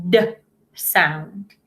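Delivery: a short voiced "d"; the ED ending as a voiced d; d sound. Shown as a demonstration. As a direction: say "d" with the throat buzzing. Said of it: "practiced the E D making the".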